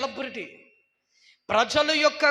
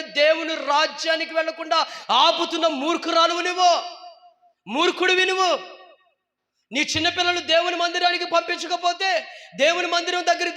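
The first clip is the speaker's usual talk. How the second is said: loud, higher scolding outburst; angry rebuke; 3 semitones higher, 3 dB louder than usual. Real, not acted. Preacher scolds parents who keep children from church, loud and angry. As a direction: rail at the careless parent.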